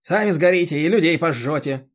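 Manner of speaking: high, loud scolding village busybody; a bossy chairwoman lecturing; indignant chairwoman. Acted. The chairwoman berates Roman about mowing, high and loud.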